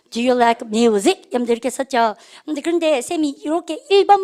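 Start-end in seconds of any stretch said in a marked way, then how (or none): 0.1-1.2 very slow, drawn-out words; slow choral reading. Shown as a demonstration. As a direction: model it slowly for repetition. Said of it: "Do you like, 시작". (아주 느리게 따라 읽기)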